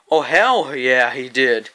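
drawn-out, relishing "hell yeah"; slow emphatic hell yeah. Retold or imitated. To the teacher about the kid, slow gleeful yes. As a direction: savor "hell" slowly, tattling with glee. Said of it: "I didn't really say, "Hell yeah".

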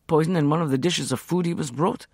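ordinary delivery, nothing marked

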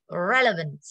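"relevant" with a punched REL; clear E sound. Shown as a demonstration. Teacher models the adjective for the class, e sound in "relevant". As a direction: open "relevant" on a clear, stressed e. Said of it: "âm E".

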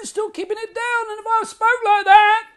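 high, loud mixed voice held down. Shown as a demonstration. Coach demonstrates mixed voice to the student. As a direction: keep it up high but grounded. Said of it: "you go".

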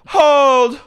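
high, very loud drawn-out yell; commanding shout. Retold or imitated. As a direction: act out halting a brawl at full volume. Retold shout to halt fight.

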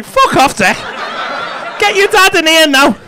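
comic indignant order; mock angry dismissal. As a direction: send him packing in pretend fury. Acts out dismissing the young accountant.

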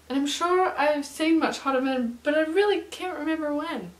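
a light put-on American accent, sung along; singing the lyric in a mild American accent. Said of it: "That was my American accent".

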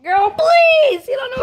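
very high, loud, dismissive; sassy big-sister put-down. Real, not acted. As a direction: squeal it with full sass. Mocking sister's ignorance.

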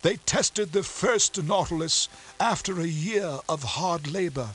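high, strained voice of a dying captain; a proud, hurt sea captain, bitter; wounded captain. A narrator's reading. Captain tells his story.

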